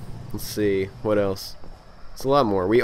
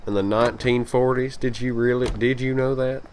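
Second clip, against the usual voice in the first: put-on Texan accent; 2 semitones higher than usual. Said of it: "Sorry if you don't like that accent".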